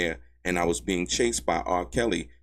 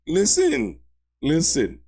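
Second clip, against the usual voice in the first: sharp, loud and much higher call to listen; 9 semitones higher, 5 dB louder, slower than usual. Real, not acted. Commentator to viewers, loud and high insistent listen. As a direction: demand attention, loud and high.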